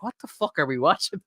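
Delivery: playing a stunned parent, eyebrows up; bewildered mom. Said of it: "she's kinda looking at me going like".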